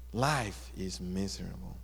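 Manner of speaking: low, soft, defeated lament; miserable complaint. Acted. Rock in the dark pocket gives up, miserably complaining. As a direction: drop low and soft, mock despair. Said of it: "now seriously complaining".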